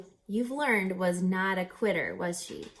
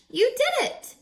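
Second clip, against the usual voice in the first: much higher, loud joyful cheer; 7 dB louder than usual. Acted. Engineers cheering Ray's success, loud and joyful. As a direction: cheer it out in delight. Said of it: "they cheered".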